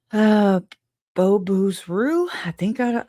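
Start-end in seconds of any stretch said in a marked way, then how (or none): 1.1-2.3 Bo Booze Roo read slowly, syllable by syllable; unsure name reading. Real, not acted. Reading a viewer's odd username, unsure how to say it. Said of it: "I might not be saying that right".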